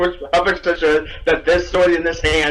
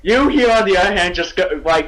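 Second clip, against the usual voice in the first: ordinary delivery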